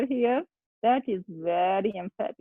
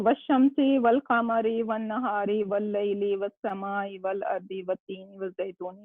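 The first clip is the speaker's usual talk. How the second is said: reciting a list of oaths, building then fading. Shown as a demonstration. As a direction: read the Quranic oaths one by one, dying away. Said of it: "so many oaths".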